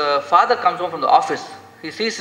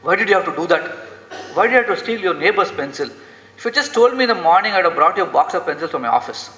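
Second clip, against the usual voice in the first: agitated father; 3 semitones higher than usual. Retold or imitated. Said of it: "This fellow gets so agitated".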